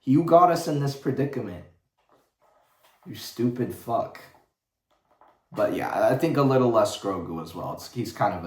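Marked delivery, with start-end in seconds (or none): 0.0-4.2 mock angry rant. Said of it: "It's like".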